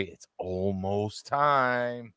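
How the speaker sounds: slow drawn-out ring announcer call; Bruce Buffer. Retold or imitated. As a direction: stretch it like a fight announcer. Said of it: "as Bruce Buffer would say".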